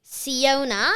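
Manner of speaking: Siona said slowly and clearly; super slow. Real, not acted. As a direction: say Siona slowly for note-taking. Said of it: "I'll say it super slow".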